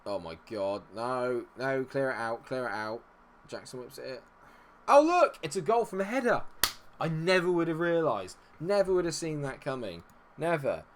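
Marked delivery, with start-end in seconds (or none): 4.9-10.8 mock surprise, pitched high and loud; sarcastic. Real, not acted. Fed-up gamer mocks conceding another header, sarcastic. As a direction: sneer it like it was obvious all along.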